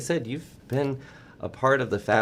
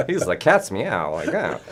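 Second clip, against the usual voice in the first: 1940s voice; 3 dB louder than usual. Pretend. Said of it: "nineteen forties voice".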